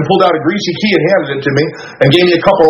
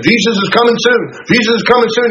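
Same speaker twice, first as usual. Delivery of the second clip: higher, sing-song mock of a preacher's warning; mocking preacher refrain; 6 semitones higher than usual. The teenage speaker mocking preachers' endless refrain, in a higher sing-song voice. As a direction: poke fun at the preachers' one sermon.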